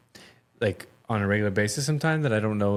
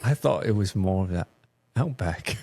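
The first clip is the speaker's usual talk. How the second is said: put-on Australian accent. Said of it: "throw another shrimp on the barbie, mate".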